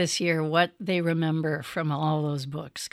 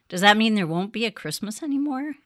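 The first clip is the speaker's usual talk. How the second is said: worried fox; 5 semitones higher, 6 dB louder, faster than usual. Acted. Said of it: "asked the fox".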